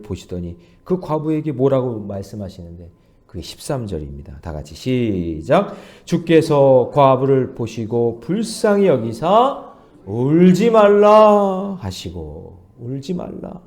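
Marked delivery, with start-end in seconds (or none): 6.1-12.7 loud, slow unison-style verse reading; slow group reading. Acted. Pastor leading everyone through the verse, loud and slow. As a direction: drag each word out as the congregation reads along. Congregation reads verse together.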